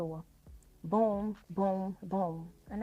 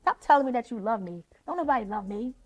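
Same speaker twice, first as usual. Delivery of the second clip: mock angry rant; 3 semitones higher, 4 dB louder than usual. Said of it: "he used to always say".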